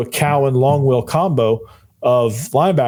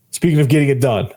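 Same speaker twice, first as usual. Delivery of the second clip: hoarse, worn-out voice; rasping through a voice that's nearly gone; losing voice; 3 semitones higher than usual. Real, not acted. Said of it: "this is all the voice I have left".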